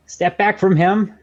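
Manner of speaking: loud, slow, threatening command; menacing voice. Acted. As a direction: warn him off with menace. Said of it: "that was my menacing voice".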